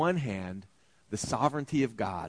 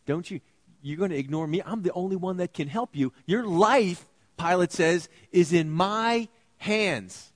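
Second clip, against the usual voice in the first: threatening Pilate; 5 semitones higher, 4 dB louder than usual. Acted.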